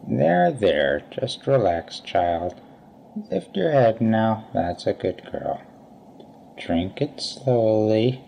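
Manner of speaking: gentle, soothing doctor; calm her like a child. Acted. Doctor soothes poisoned woman.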